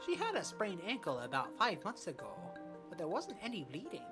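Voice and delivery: put-on a lightly done East Asian accent for the old coach. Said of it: "don't cancel me for this accent".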